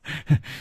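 a short hearty laugh. A narrator's reading. Unmasked friend laughs heartily at Hu Tiehua. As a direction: laugh it off as the prank ends. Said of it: "大笑着说".

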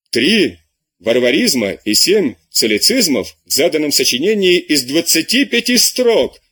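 understated irritated outburst over a bad essay; irritated shout. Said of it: "кричал раздражённый голос".

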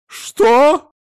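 shrieked high, loud what; piercing indignant shriek; outraged what. Acted. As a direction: explode in disbelief. Wife outraged.

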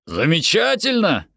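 ЗАМЕЧАТЕЛЬНО cried out high; delighted exclamation. Acted. Parent hears the children may stay, delighted exclamation. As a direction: exclaim it brightly, pitch jumping up.

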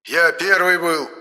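slow cross protest on первый; angry insistence. A narrator's reading. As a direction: huff and insist you were first. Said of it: "рассердился Моня".

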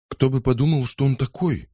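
a touch of shocked indignation; lightly voiced outrage; indignant. A narrator's reading. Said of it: "возмутилась Лиза".

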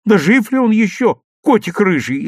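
put-on high, anxious boy's question; scared, urgent asking; frightened. A narrator's reading. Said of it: "испуганно спросил Серёжа".

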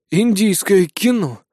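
admiring exhale. A narrator's reading. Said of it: "восхищённо выдохнул я".

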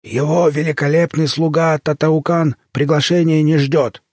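slow, pompous snapping retort; snappish creature. A narrator's reading. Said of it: "огрызнулся хвостатый".

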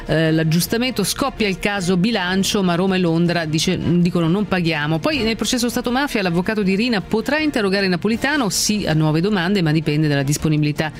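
brisk headline read over music; news read. Acted. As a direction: rattle off the headlines like a news anchor. (lettura dei titoli del telegiornale)

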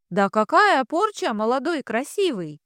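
high, pleading fortune-teller's wail; wheedling gypsy lament. Acted. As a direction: coax him like a street fortune-teller. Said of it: "запричитала та".

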